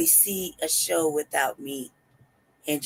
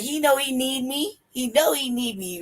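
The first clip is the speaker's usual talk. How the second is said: high, pleading mock desperation; desperate insistence; 4 semitones higher than usual. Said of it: "You hear the desperation in my voice?".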